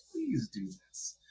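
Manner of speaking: slow, soft and high, drawing out "Please"; begging wish. Retold or imitated. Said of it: "but I was like".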